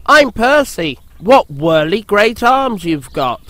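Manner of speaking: high, cheeky engine voice; high little engine. A narrator's reading. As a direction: tease the whirly stranger. Percy meets Harold.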